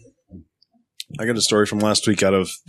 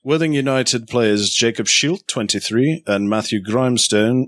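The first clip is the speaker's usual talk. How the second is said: British accent. Shown as a demonstration. Trying again at a British accent for his friends. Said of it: "Let me try it again".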